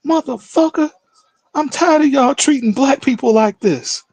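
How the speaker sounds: imitating an old man's furious rant; retold angry outburst. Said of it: "he started screaming and ranting".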